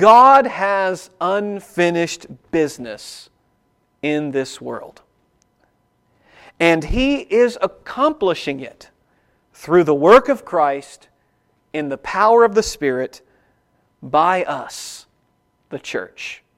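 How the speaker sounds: slow, measured, unhurried, deliberate speech. Speaker gives listeners a sentence to write down, said slowly. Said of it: "I'll try to say it slowly".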